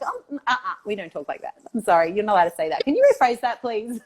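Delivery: playful stern correction, half laughing; mock strict correcting. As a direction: tell them off in jest. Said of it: "it's so funny".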